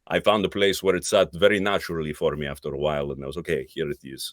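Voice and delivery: lightly Greek-accented hero voice. Shown as a demonstration. Actor recalling his assassin voice, light Greek accent. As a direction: keep a touch of the Greek accent. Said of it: "then I just took off the accent".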